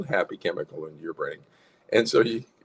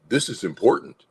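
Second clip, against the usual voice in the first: mildly anxious insistence, higher; anxiety; 4 semitones higher, 4 dB louder than usual. Acted. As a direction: insist it matters, mock worried. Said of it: "the lie associated with anxiety".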